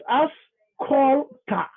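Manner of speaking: "ascolta" said very slowly in Italian, each syllable clear; slow Italian "ascolta" demo; Italian pronunciation. Shown as a demonstration. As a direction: draw out "ascolta" like a language teacher. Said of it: "ascolta in Italian".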